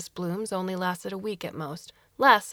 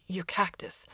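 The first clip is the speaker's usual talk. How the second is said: hesitant whisper; 3 dB quieter than usual. Acted. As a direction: struggle to get it out softly. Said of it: "he struggled to explain".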